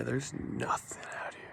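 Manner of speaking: soft spooky whisper. Real, not acted. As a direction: hush it like something's listening. Spooky foggy night walk.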